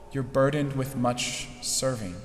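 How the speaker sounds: "burdened with much serving" said softly and tenderly; gentle. Retold or imitated. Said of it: "the gentleness in the voice of Jesus".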